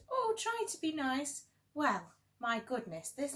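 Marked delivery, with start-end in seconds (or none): 0.1-1.5 high, frightened whimpering plea; a big lion begging, scared stiff. Acted. Frightened lion whimpers to the little mouse. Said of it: "he whimpered".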